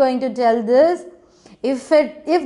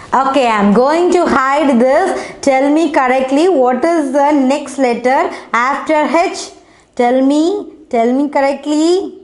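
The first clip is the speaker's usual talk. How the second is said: louder urging; 4 dB louder than usual. Shown as a demonstration. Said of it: "teacher urging class".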